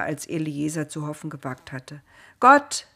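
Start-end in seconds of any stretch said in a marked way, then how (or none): 2.4-2.9 high, loud happy exclamation; joyful call. A narrator's reading. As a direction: call out gladly to God. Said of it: "rief er fröhlich".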